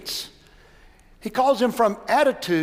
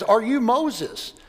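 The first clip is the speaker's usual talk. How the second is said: a second, slower ask, a touch more insistent; slower repeated question; 3 semitones higher, slower than usual. Retold or imitated. Bush repeats his question to the silent man, slower. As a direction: lean in and ask it again slowly. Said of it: "approaches him a second time and says".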